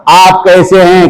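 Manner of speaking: slow demo. Shown as a demonstration. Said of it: "कैसे बोलेंगे?".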